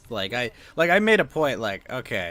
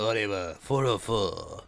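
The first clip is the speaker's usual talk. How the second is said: duck voice; 4 semitones lower, much slower than usual. Retold or imitated. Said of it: "the whole, like, duck voice".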